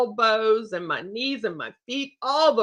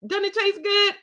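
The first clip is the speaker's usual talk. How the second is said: teasing laugh; 10 semitones higher than usual. Real, not acted. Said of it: "teasing guests".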